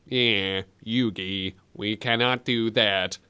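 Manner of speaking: low, slow mock Bronx accent. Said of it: "got a slight Bronx accent".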